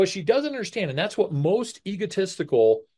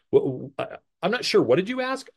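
mock evasive stammer; 3 semitones higher than usual. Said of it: "question everything to dodge".

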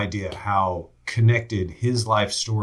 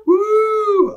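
excited whoop; 7 dB louder than usual. Real, not acted. Seeing gold medal.

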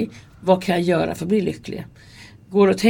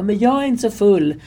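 put-on drunk protest; 3 semitones higher, 5 dB louder than usual. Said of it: "så förbannade på oss".

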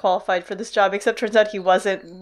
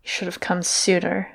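low, soft murmur; quiet, lowered reproach; 4 semitones lower, 7 dB quieter than usual. A narrator's reading. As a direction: murmur it low and softly, as if into an embrace. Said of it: "she murmured".

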